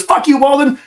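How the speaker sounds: high retorting snap; mock angry boss. Boss snapping back at teasing officer, high retort. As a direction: fire it back, half laughing.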